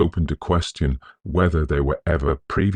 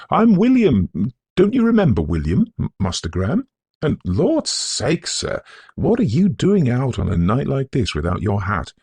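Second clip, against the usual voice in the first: a much higher, louder, eager servant's voice; old servant William; 9 semitones higher, 4 dB louder than usual. A narrator's reading. Servant William scolds young master for going hatless, fussing. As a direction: gush at him, worried and fond.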